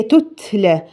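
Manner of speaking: تتلى read smoothly and slowly, with no bounce; correct reading. Shown as a demonstration. Teacher modelling the correct recitation. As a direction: say تتلى cleanly, letters unechoed. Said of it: "تقرأ كلمة زي تتلى".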